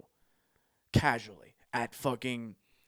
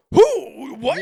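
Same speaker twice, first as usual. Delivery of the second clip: much higher and louder baffled question; confused girlfriend; 14 semitones higher, 15 dB louder than usual. Retold or imitated. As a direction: sound totally lost. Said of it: "she's like".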